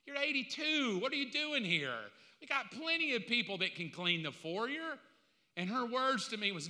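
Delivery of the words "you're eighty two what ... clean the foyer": retold protest.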